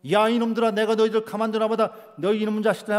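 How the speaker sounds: hammed-up giant yelling at cowards; giant's bellowing taunt. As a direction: roar insults across the battlefield. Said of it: "소리 고래고래 지르면".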